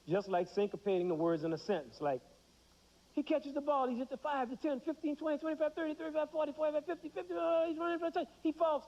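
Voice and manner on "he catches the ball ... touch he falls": high, rising sportscaster call, building to the touchdown; excited play-by-play. Acted. Teacher acting a sportscaster, excitedly calling the run. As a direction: call the run like a hyped football announcer. Mock football play-by-play commentary.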